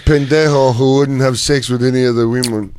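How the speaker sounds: mock driver grumbling about a passenger; put-on driver voice, mildly disgusted; imagined driver quote. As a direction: lightly mimic the driver complaining. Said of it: "He goes".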